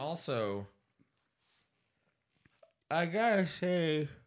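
high voice, words pushed out mid-yawn. Commenting on someone's stunt to the others in the room, saying it with a yawn. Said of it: "You gotta say it with a yawn?".

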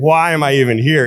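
usual speaking voice

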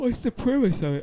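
said mid-yawn. Asking about the premise of Wheel of Time, yawning. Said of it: "I'm sorry, I'm yawning".

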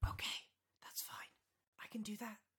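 hushed voice. Answering a whisper heard in the ear: whispering. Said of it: "why am I whispering?".

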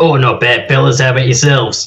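unconvincing, put-on Australian accent. A guest answering the hosts' greeting, trying an australian accent. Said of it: "I was trying to put an Australian flair in there".

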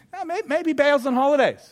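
high, playful, cheeky put-on teasing. Retelling how Elijah teased the prophets of Baal: imitating Elijah teasing. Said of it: "he starts teasing them".

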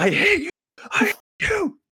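mock, very high-pitched, top-of-lungs shrieking scream. Retelling a dream where a woman screams at the speaker: imitating someone screaming. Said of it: "she starts screaming, like, at the top of her lungs".

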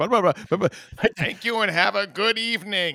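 high-pitched, stuttering wrestler promo voice. Showing another speaker how to end the show: Bubba Ray Dudley stutter. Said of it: "you need to do the Bubba Ray Dudley thing".

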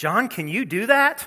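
put-on, very high, loud, dripping with sarcasm. Retelling how one of the elders sarcastically questioned him: retelling a sarcastic remark. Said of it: "one of them sarcastically said".

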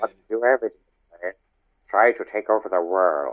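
cartoon genius lab mouse voice. Answering a challenge to do the better voice: the Brain voice. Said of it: "You do a much better Brain than I do".

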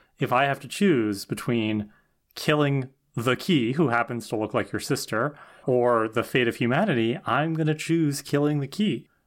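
normal talking voice

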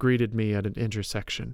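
ordinary delivery

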